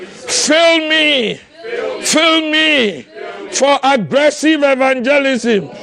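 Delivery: shouted prayer. Shown as a demonstration. Preacher leading the church in a shouted prayer. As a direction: cry out for the Spirit.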